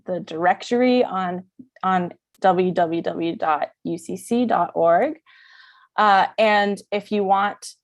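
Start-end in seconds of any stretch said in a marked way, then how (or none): 2.4-5.2 "W W W dot U C C dot org" letter by letter, distinctly; careful enunciation. Shown as a demonstration. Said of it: "I just wanted to really enunciate that".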